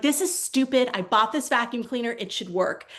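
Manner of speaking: acted exasperation, easing at the end; mock rising frustration. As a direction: protest like a fed-up customer, mildly. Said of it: "Your frustration increases".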